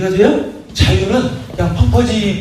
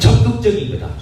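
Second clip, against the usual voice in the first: 적극적인 raised and punched, then falling; 적극적인 pitched up as a call to repeat; leading a repeat; 4 semitones higher than usual. Shown as a demonstration. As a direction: call out 적극적인 거다 for all to echo. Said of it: "따라합시다".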